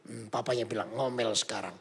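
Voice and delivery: suspenseful hushed telling; hushed narration. A narrator's reading. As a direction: draw them in quietly.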